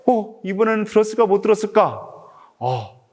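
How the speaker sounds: ordinary delivery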